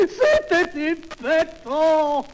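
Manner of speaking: very high, loud, stretched wailing cry; extase comique. Acted. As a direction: wail it slowly in hammed-up ecstasy. Cri final avec la concierge. (cri extatique surjoué, très aigu)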